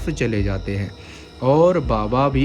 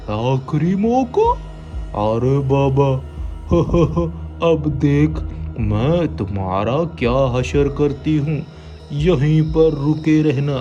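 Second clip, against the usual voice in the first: put-on old hag; 4 semitones higher than usual. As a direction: taunt and cackle. Witch mocks. (ताना मारती चुड़ैल)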